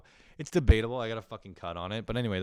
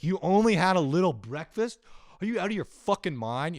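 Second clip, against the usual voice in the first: high, loud, mock-outraged mom; 10 semitones higher, 7 dB louder than usual. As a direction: play the shocked mother to the hilt. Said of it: "She's like".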